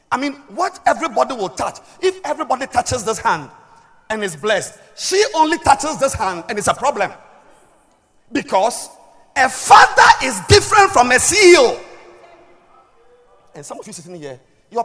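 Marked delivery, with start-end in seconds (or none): 0.1-11.8 preacher building to a loud, high punchline; emphatic preaching. Acted. Preacher explaining a father's special role, emphatic preaching. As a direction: reason it out, then proclaim the conclusion.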